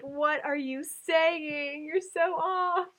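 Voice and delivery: slow, puzzled mock disbelief; drawn-out teasing what are you saying; confused friends. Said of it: "everyone looks at me like".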